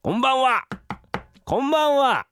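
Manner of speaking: loud, high visitor's hail; calling out. Pretend. Husband posing as the mochi maker at the door, calling out. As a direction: sing out a greeting through the door.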